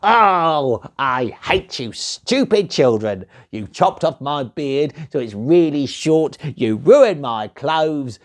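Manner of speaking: mild grumpy scolding; sulky little man telling them off; cross gnome. Acted.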